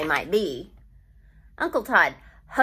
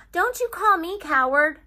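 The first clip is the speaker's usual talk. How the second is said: put-on higher and louder, a boy's hurt outburst; indignant yell; 9 semitones higher, 5 dB louder than usual. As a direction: shout it back, stung and defiant. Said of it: "I yelled at him".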